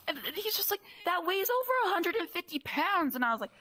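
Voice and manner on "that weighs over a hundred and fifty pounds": high-pitched mock disbelief; imitating shocked coworker. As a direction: protest as the astonished coworker. Retold coworker's alarm at the weight.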